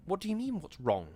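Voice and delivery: thin voice climbing high; voice rising thinly. Acted. Wife rising thinly at her husband's question. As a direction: let her voice rise thin and tight. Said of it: "her voice rising thinly".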